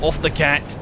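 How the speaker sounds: loud high shoo. Real, not acted. Player scolding a companion cat, loud shoo.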